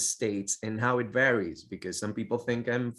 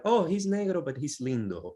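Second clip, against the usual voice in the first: retold backhanded compliment; 6 semitones higher than usual. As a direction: voice others' remark, higher and livelier. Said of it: "like, I heard all my life".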